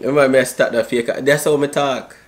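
put-on Jamaican patois accent. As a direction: chat in a fake Jamaican accent. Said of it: "Stop that fake ass accent".

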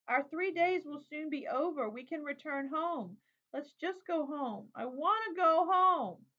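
high, slow, building to a loud sobbing wail; a little girl breaking down, begging to go home; child sobbing. A narrator's reading. Exhausted child crying to her father, rising to a loud slow wail. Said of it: "come out between halting sobs".

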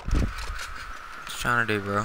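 slow unvoiced whispered taunt; creepy slow whisper at the target. Real, not acted. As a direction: breathe it out slowly like a threat. Taunting the fleeing player.

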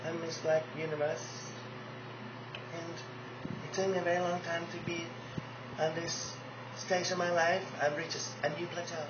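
Mercedes impression. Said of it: "we got Mercedes Ellis Del Rio".

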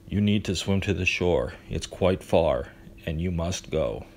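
level, unhurried monotone. Acted. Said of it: "his usual monotone voice".

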